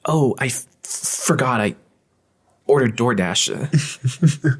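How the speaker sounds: high, slow breathy stammer; lightly breathy, dragged out; breathy anime girl. Retold or imitated. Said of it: "It's very breathy".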